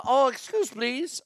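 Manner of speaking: mock Asian accent. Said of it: "wait, that's Asian".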